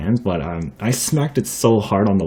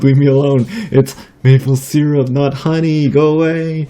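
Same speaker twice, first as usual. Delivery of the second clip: high, louder panicked pleading; hammed-up plea, pitched way up; mock freak-out; 6 semitones higher, 5 dB louder than usual. Shooing honeybees away, mock panicked and high-pitched. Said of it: "I was just freaking out".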